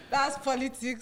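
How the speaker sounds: teasing through laughter; laughing reply. Real, not acted. Host laughing at reaction.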